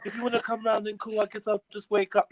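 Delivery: sleepy nighttime voice. Retold or imitated. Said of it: "You got your nighttime voice on".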